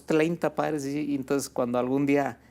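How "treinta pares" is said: "treinta" with an L for the R, like "tleinta"; mock a child's "tleinta" for "treinta"; imitating mispronounced R. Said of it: "problema de pronunciación con la R". (remedando "treinta" con L en vez de R)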